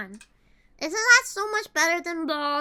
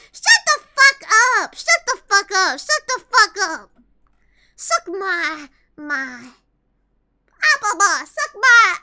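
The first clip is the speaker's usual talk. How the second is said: loud, higher repeated yell; mock yell; 3 semitones higher, 6 dB louder than usual. Jailed streamer yelling at chat, mock yell. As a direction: yell it like an angry inmate. Pretend shouting in jail.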